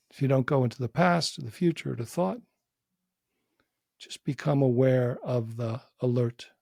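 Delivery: unhurried inquiry with long pauses between phrases; measured meditation-teacher delivery; guided meditation. Real, not acted. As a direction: guide a listener gently inward, leaving space.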